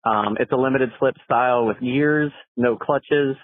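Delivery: phone message playback; recorded caller on the line; voicemail. Real, not acted. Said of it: "let's see what the caller has to say".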